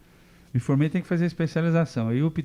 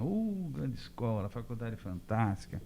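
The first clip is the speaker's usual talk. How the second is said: professor's praise; 2 semitones lower, 5 dB quieter, slower than usual. Retold or imitated. Professor praising the other school.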